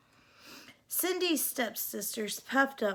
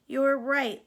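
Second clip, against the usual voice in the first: laughing; 2 semitones higher, 5 dB louder than usual. Acted. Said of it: "laughed the younger sister".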